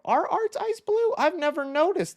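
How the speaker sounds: surprised. Real, not acted. Streamer surprised by a chat comment about the clown. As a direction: ask it in real disbelief.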